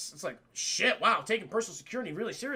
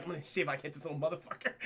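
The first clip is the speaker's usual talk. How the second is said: mock bus driver; 7 semitones lower, 7 dB quieter, much faster than usual. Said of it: "I'm gonna be like".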